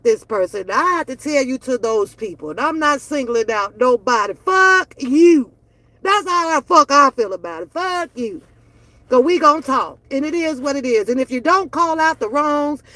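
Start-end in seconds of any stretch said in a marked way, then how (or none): 4.3-5.5 louder, defiant, punched out; loud defiant curse at critics; loud fuck you. Real, not acted. 7.7-8.4 softer, dropped-off repeat; softer repeat, almost an afterthought; quiet fuck you. Real, not acted. Repeats curse, dropped low.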